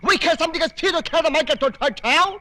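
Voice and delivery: mock Jackie Chan foreign gibberish. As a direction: rattle off garbled English in a mock Jackie Chan accent. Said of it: "నీ Jackie Chan భాష ఏంట్రా".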